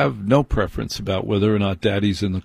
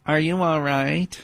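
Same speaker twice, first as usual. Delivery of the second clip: a lightly voiced stranger, much higher; concerned passerby; 6 semitones higher than usual. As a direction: ask through the glass as if checking on him. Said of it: "and saying".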